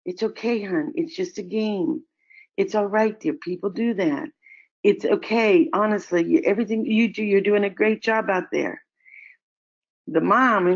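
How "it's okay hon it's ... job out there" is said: lightly voiced adults fussing over a child; soothing comfort. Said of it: "go to F comforting".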